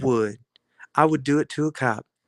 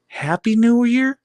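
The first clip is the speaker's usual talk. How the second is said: mock cheer; 9 semitones higher, 5 dB louder, slower than usual. Mocking a cheerful greeting.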